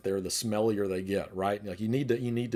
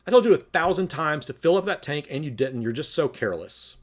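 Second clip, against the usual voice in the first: mild mock scolding, a little louder and quicker; criticism; 3 semitones higher, 4 dB louder than usual. Shown as a demonstration. Demo of criticizing a partner, mildly scolding. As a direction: nag your partner with a touch of blame. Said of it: "The criticism would be".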